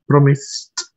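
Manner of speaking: "Promised" with a short i, as "PROM-ist"; correct pronunciation. Shown as a demonstration. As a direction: model "Promised" carefully, ending like "mist". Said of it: "That is the pronunciation".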